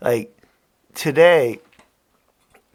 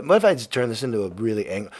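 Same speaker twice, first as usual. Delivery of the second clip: building anger; 4 semitones lower, faster than usual. Pretend. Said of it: "turn this into a super angry podcast".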